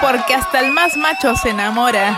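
a hint of a dramatic telenovela; telenovela line. Quoting a telenovela in Mexican accent. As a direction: deliver it like a soap opera tagline. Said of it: "Pasión de gavilanes".

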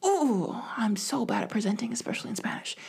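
whispered, anxious self-talk before presenting; a mild whispered panic; nervous inner voice. Retold or imitated. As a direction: hush it like you dread going up. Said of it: "But I still was like".

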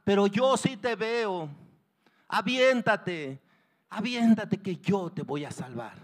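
drawn-out, insistent reassurance; father urging. Acted. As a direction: coax your child to jump, firmly. Father urges child to jump.

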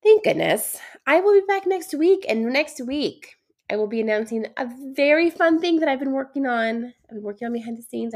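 sick, stuffy nasal voice. Real, not acted. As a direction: talk through a blocked nose. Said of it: "Sorry that I sound so nasally and sick".

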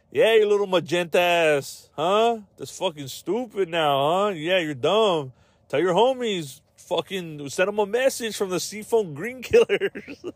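mock gangster taunt. Gang member taunting magenta rival, mild mock thug voice. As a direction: sneer like a cartoon gangster.

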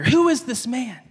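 a touch of awestruck amazement; reverent awe. Acted. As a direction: marvel at his mighty acts. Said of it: "to a reverent fear".

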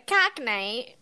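drawn-out attempt at Cockney; bad Cockney accent. Joking with friends about grimy British, bad Cockney accent. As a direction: have a clumsy go at a Cockney accent. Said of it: "I'm so bad at accents".

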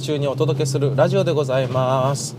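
bright radio host greeting; ultra polite japanese. Acted. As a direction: announce the show like a DJ. Radio show opening line.

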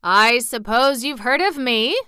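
lightly voiced proud old gentleman. Old Johnny Cake introduces himself, mildly proud. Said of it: "with an air of pride".

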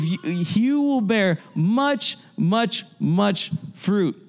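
much, much fruit stretched out very slowly; preacher dragging the words out for weight; slow, drawn-out promise. Acted. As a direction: linger on each much.

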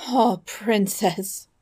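slow, tearful queen's cry; a mother starting to break down; weeping queen. Acted.

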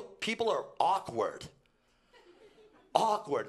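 laughing on "Awkward", loud; laughing emphasis. Real, not acted. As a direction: chuckle through the word "Awkward". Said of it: "laughing repeat for emphasis".

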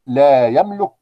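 ordinary talk, nothing marked

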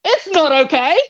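high, strained, upset cry of refusal; retold anguished protest. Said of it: "I said".

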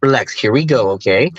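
imitating a calming father figure; lightly acted soothing coach. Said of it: "he was just so soothing".

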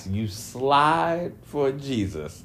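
slow, disbelieving question; incredulous echo. Retold or imitated. Echoing the rapper's claim to viewers with slow disbelief. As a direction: repeat his words back, slowly and in disbelief. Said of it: "I'm like".

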